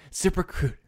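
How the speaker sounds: sing-song the sponsor name up high; mock ad read. Friend mocking a podcast host's ad read, high and sing-song. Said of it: "but she goes".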